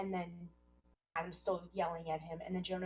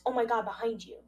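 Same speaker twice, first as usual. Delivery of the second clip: mock scream, higher and louder; imitating a panicked yell of warning; retold scream; 5 semitones higher, 9 dB louder than usual. Podcaster retelling Jonah screaming a warning, mock yell. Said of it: "Jonah re-, repeats".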